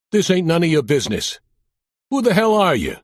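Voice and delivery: put-on thick Brooklyn accent. Aging mobster warns off a nosy cop, thick Brooklyn accent. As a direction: growl it out like a Brooklyn wiseguy. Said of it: "with a thick Brooklyn accent".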